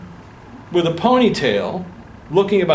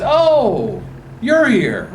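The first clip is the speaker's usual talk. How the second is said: welcoming; 7 semitones higher, much slower than usual. Retold or imitated. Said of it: "unbelievable welcoming gesture".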